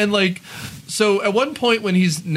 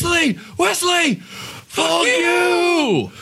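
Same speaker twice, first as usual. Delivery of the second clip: shaking with anger; 11 semitones higher, much slower than usual. Retold or imitated. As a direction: scream it, trembling with rage. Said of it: "literally shaking with rage".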